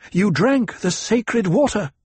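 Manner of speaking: high, loud, drawn-out shocked cry; blurted out. A narrator's reading. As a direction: burst out with it, pitch leaping. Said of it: "she blurted".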